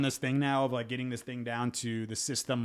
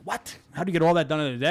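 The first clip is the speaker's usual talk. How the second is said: fast mocking disbelief, repeating it; incredulous; 4 semitones higher, 5 dB louder, faster than usual. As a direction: echo the question back in fast disbelief. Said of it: "And I'm like".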